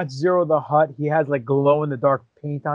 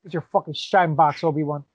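Joe Pesci impression; 2 semitones higher than usual. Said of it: "a Joe Pesci voiced Hutt".

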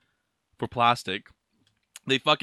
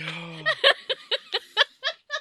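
high laughing wheeze. Real, not acted. Podcaster overcome by hot sauce, high wheezing laugh. Gasping from the burn.

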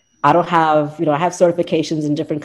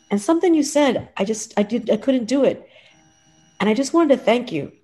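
choked up; 6 semitones higher than usual. Real, not acted. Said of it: "I'm getting a little teary-eyed".

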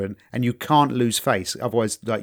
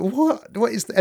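higher, rising stunned question; baffled disbelief; 8 semitones higher than usual. Retold or imitated. Soldier staring at his useless gun, high baffled question. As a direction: gasp it out like the gun just failed. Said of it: "He's looking at the gun and go".

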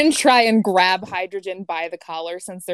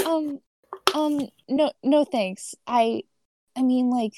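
hesitant refusal; 4 semitones higher, slower than usual. Acted. Character turns down a glass of wine, hesitant and halting. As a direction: decline awkwardly, pausing between false starts.

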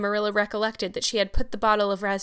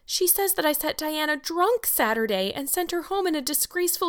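high, loud-edged theatrical lament; wailing; 9 semitones higher, 3 dB louder than usual. A narrator's reading. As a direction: build in pitch to overwhelmed woe. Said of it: "she wailed".

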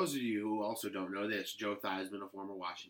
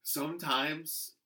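real choked-up feeling, slightly raised pitch; getting emotional; 4 semitones higher, slower than usual. Real, not acted. Podcast host suddenly moved while discussing football, emotional. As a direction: let it hit you mid-thought. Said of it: "I'm getting emotional right here".

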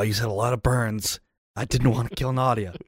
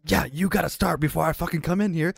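fast exasperated rant; 9 semitones higher, faster than usual. Acted.

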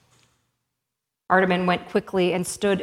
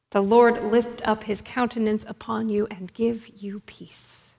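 very gently. Acted. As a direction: bless him gently, fading into a hushed whisper. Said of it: "very gently".

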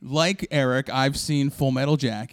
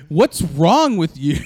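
slow drill sergeant shout; 3 dB louder, slower than usual. Pretend. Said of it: "little Arlie Ermy".

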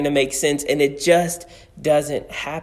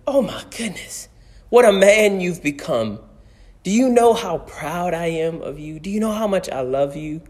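voicing the proud father; 4 semitones higher than usual. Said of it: "he says".

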